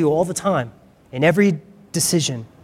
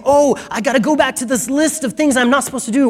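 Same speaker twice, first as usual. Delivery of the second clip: high, mocking take on a rule-keeper; mock legalistic whine; mock whiny voice; 7 semitones higher than usual. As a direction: sneer it like a checklist Christian.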